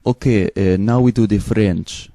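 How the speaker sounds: lightly put-on Eastern European accent. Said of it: "I take Eastern European accent".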